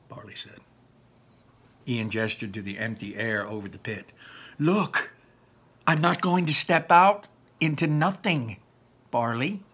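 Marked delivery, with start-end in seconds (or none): 0.1-0.6 hushed whisper; whispered tag. A narrator's reading. Narrator whispering the speaker tag. 4.6-9.6 a touch higher and louder; mild whiny refusal; reluctant Ian. Acted. Ian refusing to step off, mildly whiny.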